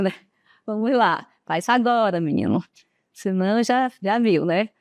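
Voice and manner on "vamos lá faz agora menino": mock bossy mother. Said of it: "A mãe da gente sempre fala assim".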